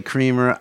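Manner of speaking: "Creamer" with a long ee; "Creamer" as KREE-mer; variant Creamer pronunciation. Retold or imitated. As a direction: say "Creamer" like coffee creamer. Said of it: "some people say Creamer".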